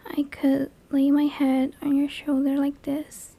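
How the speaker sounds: a touch of sweetness, softly spoken; sweet. Pretend. Monster offering to be a blurry-faced friend, softly sweet. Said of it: "Or I could be sweet".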